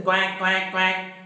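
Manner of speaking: lightly imitated duck quacking. Shown as a demonstration. Teacher showing the duck's sound, lightly imitated quacking. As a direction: quack like a duck, in quick repeats. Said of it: "the duck would say".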